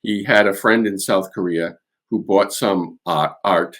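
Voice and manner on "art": "art." with a dropped r, Boston-style; "art." in a light Boston accent. Shown as a demonstration. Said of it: "I was gonna say it with the Boston accent there".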